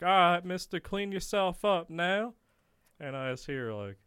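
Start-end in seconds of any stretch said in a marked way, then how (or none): 0.0-2.3 higher-pitched nurse voice; imitated nurse. Nurse handing inmate wipes, higher imitated voice. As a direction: impersonate a nurse instructing a patient. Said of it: "I just hear a nurse like".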